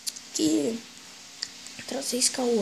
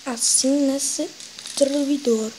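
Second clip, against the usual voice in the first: raging gamer. Real, not acted. Gamer frustrated after losing.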